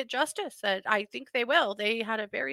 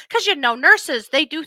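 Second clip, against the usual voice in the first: laughing sarcasm; 6 semitones higher, 8 dB louder than usual. Real, not acted. Sarcastic joke about nurses.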